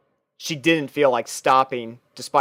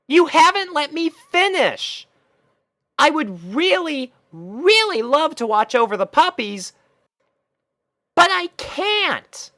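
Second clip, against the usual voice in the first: exasperated. Acted. Twilight finally tells Rainbow the truth, exasperated. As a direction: let the frustration finally spill out. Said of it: "with such exasperation".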